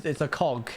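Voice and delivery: cog with its final G stressed; emphasis on the G. Shown as a demonstration. Streamer correcting the word, emphasis on cog's G. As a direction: land hard on the G in cog. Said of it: "Emphasis on the G".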